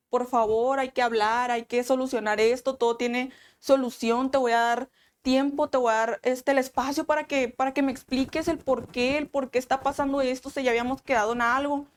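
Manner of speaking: mildly desperate retold pleading; urgent but restrained appeal; desperate plea. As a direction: replay a plea, words tumbling on with little pause. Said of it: "le digo todavía desesperada".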